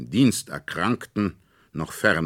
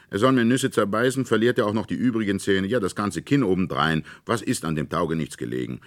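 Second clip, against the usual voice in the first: put-on pushy boy; 5 semitones higher, 5 dB louder, faster than usual. A narrator's reading. Fritz argues, quick and loud.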